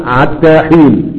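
عتى with ain in place of ha, said slowly; fahfaha demo. Shown as a demonstration. Teacher reciting Ibn Masud's reading, drawn out. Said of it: "حتى يقول عتة".

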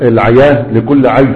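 العياة لكل عي with ع for ح; ح of الحياة said as ع; Hudhayl fahfaha. Shown as a demonstration. Teacher demonstrating Hudhayl speech, ha turned to ain. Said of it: "يجعلون الحاء عينا".

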